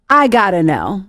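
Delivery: hammy casual demo of the question; corny deliberate delivery; bad acting. Shown as a demonstration. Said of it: "I think I would deliver it like this".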